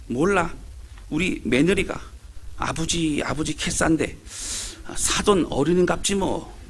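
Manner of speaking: lightly voiced Gyeongsang dialect old woman, unsure; a hint of a shrugging Gyeongsang grandmother; Gyeongsang granny dialect. Granny guessing about her daughter-in-law, mild Gyeongsang dialect. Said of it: "경상도 할매들의 대화입니다".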